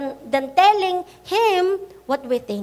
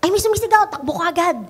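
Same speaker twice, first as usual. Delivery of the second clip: mock hasty reaction; 2 semitones higher, much faster than usual. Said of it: "anong mangyayari?".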